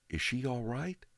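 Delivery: put-on high, boyish protest; boy questions the father, upset; young boy. A narrator's reading. Boy asks neighbor.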